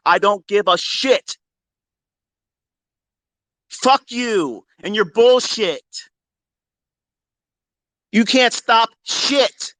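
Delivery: slow, high, word-by-word taunt; slow defiant taunt. Real, not acted. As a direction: drag each word out in contempt.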